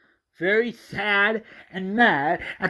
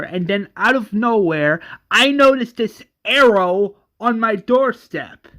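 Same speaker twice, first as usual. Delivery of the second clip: agitated retelling; 4 semitones higher, 5 dB louder than usual. Acted. Johnny explaining the letter.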